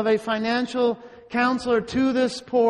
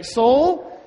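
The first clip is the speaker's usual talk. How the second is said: farmer addressing his soul; 3 semitones higher, 4 dB louder than usual. Acted. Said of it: "Maybe we should talk more like this".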